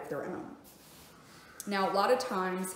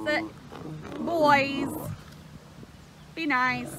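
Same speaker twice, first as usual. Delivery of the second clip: firm commands to the lions; 6 semitones higher, slower than usual. Real, not acted. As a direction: tell the animals off firmly.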